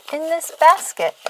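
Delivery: ordinary delivery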